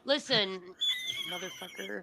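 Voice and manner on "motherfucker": squeaky mock curse. Mock insult to host.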